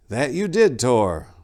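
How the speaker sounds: put-on old abbot. A narrator's reading. Abbot Gelfus calming Tor in the courtyard, aged voice. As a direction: wise old abbot counselling patience.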